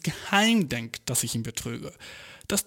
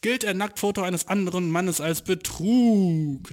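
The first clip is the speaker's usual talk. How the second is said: title read; 3 semitones higher, slower than usual. Shown as a demonstration. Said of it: "Nicer Titel".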